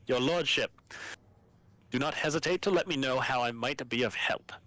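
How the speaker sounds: lightly voiced shocked governor; a hint of a stern governor in dismay; Medina voice. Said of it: "You can voice Medina".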